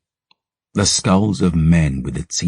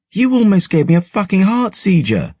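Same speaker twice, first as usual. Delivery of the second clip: put-on much higher, slightly louder scolding noble girl; indignant young aristocrat, shaken by a fright; startled noble girl; 3 dB louder than usual. Startled novice scolds the boy who woke her, high and indignant.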